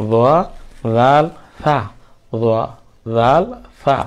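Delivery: soft dental th sounds starting "জোয়া", "জাল", "সা"; tongue-tip th on "জোয়া", "জাল", "সা"; very soft letters. Shown as a demonstration. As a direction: keep "জোয়া", "জাল", "সা" soft, without hissing or buzzing. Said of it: "একদম নরম উচ্চারণ করতে হবে".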